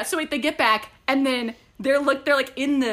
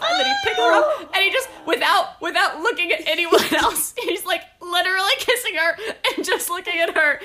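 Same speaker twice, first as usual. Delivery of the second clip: excited gushing; 6 semitones higher, 3 dB louder than usual. Real, not acted. Gushing over kiss scene.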